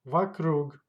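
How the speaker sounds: "Вокруг" as va-KRUG; stress on last syllable. Shown as a demonstration. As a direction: hit the final syllable of "Вокруг", first vowel weak. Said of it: "Stressed goes to last syllable".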